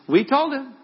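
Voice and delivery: very high, loud, gossipy crowing; loud I-told-you-so. Acted. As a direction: crow it out for all to hear. Disciples gossiping, repeated more forcefully.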